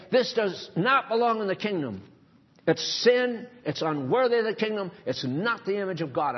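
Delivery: firm stern rebuke. Shown as a demonstration. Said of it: "you have to get stern about it".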